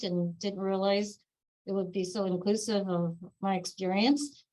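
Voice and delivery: talking through a wired jaw; jaw wired shut. Real, not acted. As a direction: speak with teeth held together. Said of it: "had my jaw wired shut".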